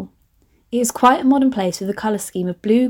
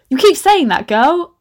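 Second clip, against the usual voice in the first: sassy teasing; 6 semitones higher, 4 dB louder than usual. Real, not acted. Teasing her past self.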